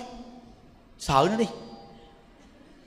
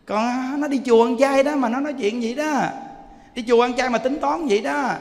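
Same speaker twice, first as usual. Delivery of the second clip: ordinary talk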